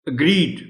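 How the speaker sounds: اگریڈ ending on a clear ڈ sound; اگریڈ, last sound a plain ڈ; modelled pronunciation. Shown as a demonstration. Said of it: "یہ ڈی کی sound دے گا". (اگریڈ، آخر میں ڈ کی آواز)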